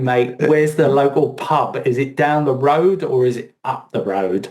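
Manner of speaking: hammy Cockney geezer asking directions; light mock-Cockney accent; bad Cockney accent. Shown as a demonstration. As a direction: put on your worst Cockney, lightly. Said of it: "that's my worst Cockney accent".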